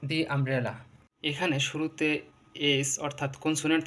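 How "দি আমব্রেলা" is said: দি আমব্রেলা with দি as "dee"; long "dee" before the u of umbrella. Shown as a demonstration. Teacher giving a vowel example, দি as "dee". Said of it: "তখন উচ্চারণ হবে দি".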